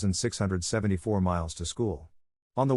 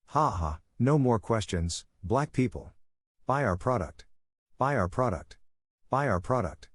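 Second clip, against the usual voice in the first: mock corporate spokesman. Corporation addressing black people mockingly.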